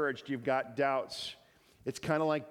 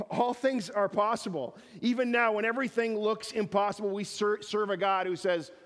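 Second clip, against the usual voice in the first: raised, urgent preacher's voice; fervent preaching; 7 semitones higher, 4 dB louder than usual. Real, not acted. Preacher assuring the congregation of hope, fervent. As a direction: preach it with rising conviction.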